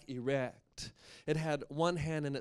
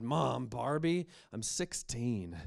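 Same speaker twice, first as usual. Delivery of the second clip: unimpressed; 3 dB louder, slower than usual. Acted. Teen unimpressed in story.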